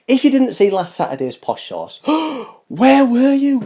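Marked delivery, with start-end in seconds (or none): 2.0-3.6 high, slow, hammed-up gasp of disbelief; play-acted shock that they missed it; mock gasp of shock.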